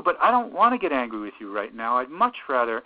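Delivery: easing from heated toward reasoning; starting to calm down. Acted. Therapist reasoning with an angry teenager, winding down from heated. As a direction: come down from the outburst, still firm. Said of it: "to reason and to calm down".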